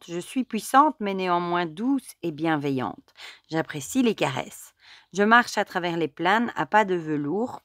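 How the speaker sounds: measured, lyrical recital; a hint of the cat speaking; poetic reading. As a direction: read the card's lesson like a gentle incantation. Reads card text as cat.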